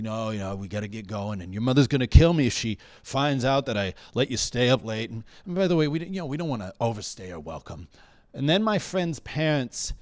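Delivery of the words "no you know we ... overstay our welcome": lightly voiced dad making excuses; a hint of a parent reciting the usual lines; regular parent spiel. Dad to child at pickup, mildly put-on parent spiel. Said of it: "he had the regular parent spiel".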